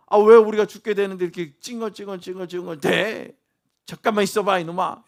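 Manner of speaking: loud, mock scolding of a whining child; exasperated parent. Parent answering a child's whining, loud mock exasperation. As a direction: play an impatient parent telling a child off.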